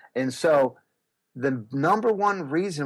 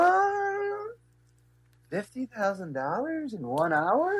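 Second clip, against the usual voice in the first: higher, slow stunned question; retold disbelief; 9 semitones higher, slower than usual. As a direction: replay hearing the sales total in shock. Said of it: "I'm like".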